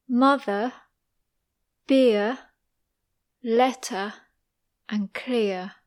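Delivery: British words with the final R left silent; non-rhotic R. Shown as a demonstration. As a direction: end each word on an open vowel, no R. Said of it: "non-rhotic R".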